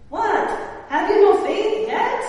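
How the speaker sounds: put-on high, loud, lightly Jewish-accented exasperated rebuke; Jesus with a Jewish accent. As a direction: call out in disbelief with a mild Jewish accent. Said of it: "I imagine he has some Jewish accent".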